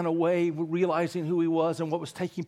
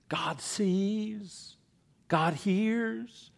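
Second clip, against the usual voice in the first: whisper; 5 semitones higher, much slower than usual. Acted. Awed sermon whisper.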